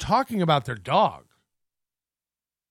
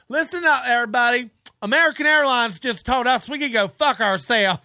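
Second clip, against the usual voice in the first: mock announcement; 3 semitones higher than usual. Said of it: "the other one's like".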